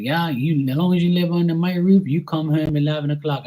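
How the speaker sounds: dad laying down the law. Retold or imitated. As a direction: lay down the house rule, mock stern. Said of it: "He's like".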